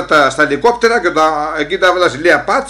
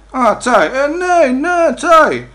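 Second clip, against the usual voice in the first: excited realization; 10 semitones higher, 5 dB louder, much slower than usual. Retold or imitated. Realizing it's tea.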